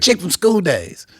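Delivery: high-pitched, stretched-out delivery; imitating band member. Band member identifying the singer, high drawn-out imitation. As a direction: repeat it high and slow, mimicking him. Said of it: "That's how he said it".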